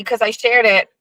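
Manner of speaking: ordinary talk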